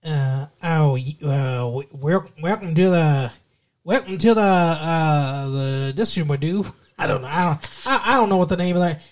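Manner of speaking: Florida accent. Shown as a demonstration. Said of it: "Florida's like".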